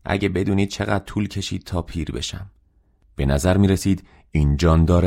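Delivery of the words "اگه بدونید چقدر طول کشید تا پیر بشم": softly moaned complaint; a mild, quiet groan of self-pity in the words; lightly acted weary lament; understated moan. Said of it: "نالید".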